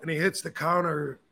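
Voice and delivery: ordinary talk, nothing marked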